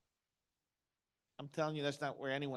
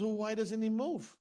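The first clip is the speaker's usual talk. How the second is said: higher, louder, slowed baffled question; baffled traveler; 5 semitones higher, 5 dB louder than usual. Retold or imitated. Traveler questions the farmer about the dog, baffled. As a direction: act out an incredulous traveler.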